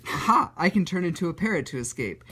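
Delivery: hammed-up superhero eureka; triumphant hero. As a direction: cry out like a comic-book hero with an idea. Voices hero's sudden escape idea.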